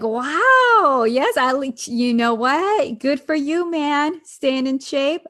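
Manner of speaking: mock enthusiasm. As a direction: hype him up like an impressed buddy. Mock cheering the workout scene.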